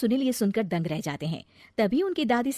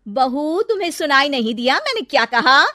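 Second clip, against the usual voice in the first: angry; 5 semitones higher, 8 dB louder than usual. Acted. Mother-in-law scolds bride.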